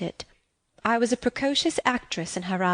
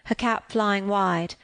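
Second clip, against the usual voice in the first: ordinary delivery, nothing marked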